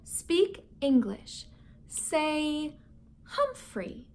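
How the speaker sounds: slow teaching "Speak English"; coaching. Acted. Saya teaching her mother English, slow coaching. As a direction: coach each word slowly. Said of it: "Saya said".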